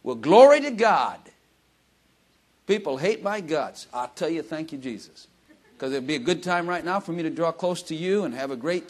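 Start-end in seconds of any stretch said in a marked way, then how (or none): 0.0-5.3 loud hallelujah shout; mock joyful praise. Preacher voicing a believer praising God in trials, loud joyful shout. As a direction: cry out praise as if in the fire. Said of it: "take the good with the bad and say".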